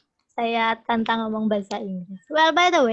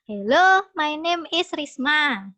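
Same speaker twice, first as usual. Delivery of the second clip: Javanese accent; 3 semitones higher, 4 dB louder, slower than usual. Shown as a demonstration. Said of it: "Medok kan ya?".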